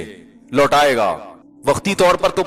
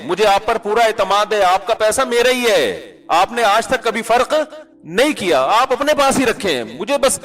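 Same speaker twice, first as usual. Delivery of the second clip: sweet devoted wife; 2 semitones higher than usual. Retold or imitated. Ideal wife voiced sweetly.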